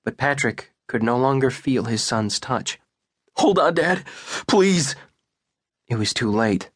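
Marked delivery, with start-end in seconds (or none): 3.4-5.0 higher, pleading and tearful; desperate plea. Acted. Son pleads with his dying father, tearful. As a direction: beg him to hold on.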